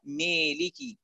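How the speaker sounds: ميليكي with every vowel pulled to ya, high and soft; exaggerated imala. Shown as a demonstration. Teacher exaggerating the imala error for students, high mock voice. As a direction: stretch مالك into ميليكي, high pitched. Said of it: "يميلها إمالة".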